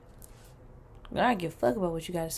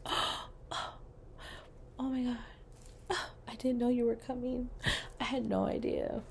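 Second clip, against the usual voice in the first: mock shock; 4 semitones higher, 11 dB quieter than usual. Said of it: "We gotta act shocked".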